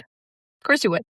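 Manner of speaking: slow, knowing sarcasm; Of course you would drawn out slowly and mockingly. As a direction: stretch it out, dripping with irony. Repeated sarcastic punchline.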